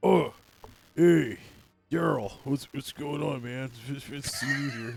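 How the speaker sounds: calm, broken speech in a bugbear monster voice. Narrating a bugbear that turns and greets you, speaking in broken calm. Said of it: "he says in broken calm".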